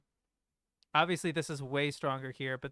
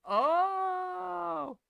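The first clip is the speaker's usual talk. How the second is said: high, long-held "oh"; hammed-up shut-down groan, pitched high; mock reaction; 13 semitones higher, 4 dB louder than usual. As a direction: hold a high wail of mock dismay. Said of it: "totally shut her down. Like".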